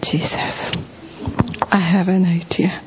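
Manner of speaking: hushed whisper of an eager idea; soft unvoiced whisper to Jesus. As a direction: breathe it out secretly. Excited prayer whispered to Jesus.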